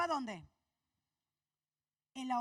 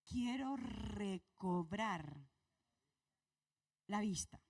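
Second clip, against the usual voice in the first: slow, plaintive plea; a hint of blind Bartimeo pleading; lightly voiced blind beggar; 5 semitones lower, much slower than usual. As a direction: ask humbly to see again. Bartimeo answers Jesus.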